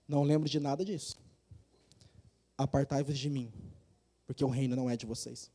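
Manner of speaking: low, quiet pronouncement as Christ; rejeição solene. Acted. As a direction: send them away softly and gravely. Cristo rejeita o primeiro grupo. (rejeição grave, em voz baixa)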